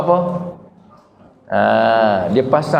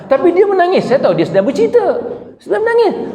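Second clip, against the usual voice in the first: higher, urgent preacher's voice; impassioned preaching; 9 semitones higher than usual. Acted. Preacher stirring the congregation about weeping at the Kaabah, impassioned. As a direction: lift it up and press the point home to the crowd.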